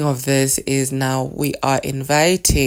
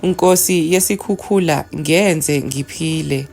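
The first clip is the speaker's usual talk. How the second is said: measured, raised chanting of a litany; prayer recitation; 2 semitones higher than usual. Acted. Spiritual teacher reciting the litany to listeners, in a solemn chant. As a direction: intone the prayer with reverence.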